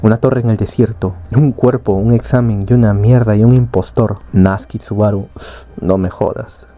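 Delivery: understated irritated rant, sinking at the end; mild angry shouting. Acted. Subaru lists what happened to him, mildly annoyed. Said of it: "todo molesto, gritando".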